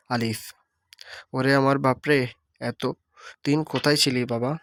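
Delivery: same mother's cry, standard wording; the mother's call, now in standard Bengali. Shown as a demonstration. Teacher voicing the mother in standard speech, calling her son. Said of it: "আঞ্চলিক রূপ".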